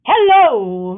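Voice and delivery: plain reading voice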